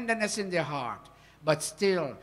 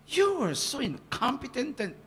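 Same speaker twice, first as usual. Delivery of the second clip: mild mock scolding; 7 semitones higher than usual. Shown as a demonstration. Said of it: "the dog in me barking".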